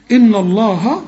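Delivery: إن الله with a thickened N; wrong heavy N. Shown as a demonstration. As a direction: darken the end of إن into الله. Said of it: "إيه الخطأ؟".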